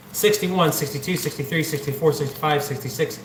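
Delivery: winded from counting; breathless, running out of air; out of breath. Real, not acted. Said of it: "I'm out of breath".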